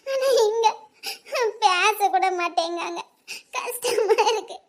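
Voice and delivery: slow, crying through the words; tearful. Acted. Wife telling her husband she is lonely, slow and tearful. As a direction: let the words slow and choke up. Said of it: "நீ அழாதடி".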